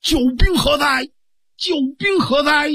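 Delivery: high, ringing call for the reinforcements; boy shouting for his hidden helper, high and loud; loud summons. Acted. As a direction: bellow it out, expecting someone to appear. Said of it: "高声喝喊".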